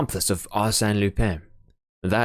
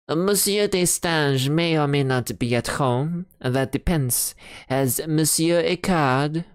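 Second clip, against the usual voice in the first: higher, haughty servant at the door; disdainful servant; 8 semitones higher than usual. Acted. Servant sizing up a shabby stranger, disdainful and higher. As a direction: look down your nose at the shabby visitor.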